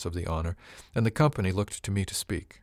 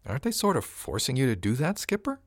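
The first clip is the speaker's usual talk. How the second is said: higher-pitched, questioning female character; concerned crewwoman; 7 semitones higher than usual. A narrator's reading. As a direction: lift the voice, question the skipper. Crew woman questions her captain.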